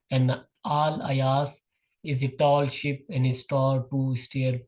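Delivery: measured, slow poem reading; poem recitation. Acted. Teacher reading a poem to the class, slow measured recitation. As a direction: read the verse out slowly, phrase by phrase.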